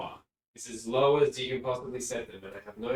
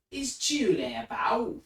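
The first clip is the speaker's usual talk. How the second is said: put-on northern English accent; 10 semitones higher, 3 dB louder than usual. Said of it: "neighbor who was from the north of England".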